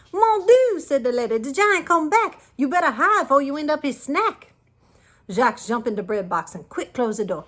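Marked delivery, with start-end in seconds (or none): 0.1-4.5 high, loud frightened warning; alarmed giant lady. A narrator's reading. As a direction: hurry him to hide. Alarmed lady warns boy.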